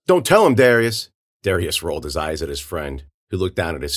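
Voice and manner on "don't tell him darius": put-on high, loud kid interjection; urgent warning. Kid warning his friend about police, urgent. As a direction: jump in sharply to stop a friend.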